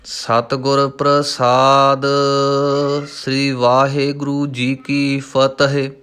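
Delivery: drawn out, stretched syllables; slow recitation. Shown as a demonstration. Teacher reciting Gurbani for students, slow and measured. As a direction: chant the word slowly and evenly.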